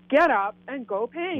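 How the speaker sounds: mild mock yell from her heart. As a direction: push the command harder. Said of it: "this time I heard louder".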